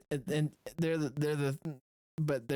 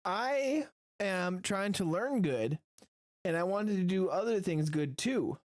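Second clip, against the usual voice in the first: slow, higher, halting character voice; simple, higher-pitched eager learner; earnest simpleton; 4 semitones higher, slower than usual. Acted. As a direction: say it slowly with naive earnestness. Player's character answers eagerly.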